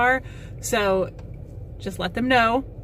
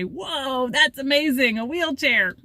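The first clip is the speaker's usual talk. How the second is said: a hint of a wide-eyed kid; mild childlike amazement; excited child; 4 semitones higher, slower than usual. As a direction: lightly mimic a child's wonder. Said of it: "who say".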